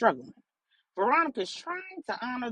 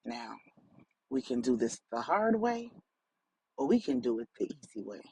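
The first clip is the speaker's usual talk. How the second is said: menacing man, lower voice; 8 semitones lower than usual. A narrator's reading. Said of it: "The man said".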